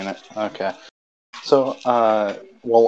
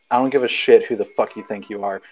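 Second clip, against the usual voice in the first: dramatic reading; 3 dB louder than usual. Acted. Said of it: "I'll read it out dramatically".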